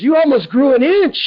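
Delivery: high-pitched mock amazement; hammed-up incredulous exclamation; amazed. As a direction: imitate a stunned doctor announcing the impossible. Retelling doctor's amazed discovery.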